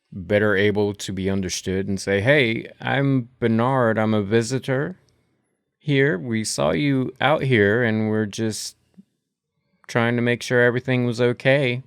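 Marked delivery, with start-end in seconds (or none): 2.2-11.8 calling out, slightly louder. Acted. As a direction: call over to a stranger. Character calls to stranger.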